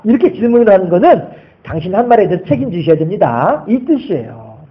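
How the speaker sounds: ordinary delivery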